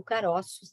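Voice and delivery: "caroços" with an open stressed O; open vowel. Shown as a demonstration. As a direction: say "caroços" opening the middle O. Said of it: "um timbre diferente".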